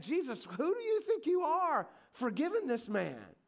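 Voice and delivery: high-pitched, indignant acted tirade; angry religious leader. Religious leaders challenging Jesus for forgiving sins, angry. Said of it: "their faces are looking all angry".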